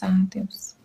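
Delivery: breathy whisper, sighing to God; whispered plea to God. Retold or imitated. Praying alone in church at night, a whispered sigh. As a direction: hush it like a private prayer. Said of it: "eu falava assim com Deus".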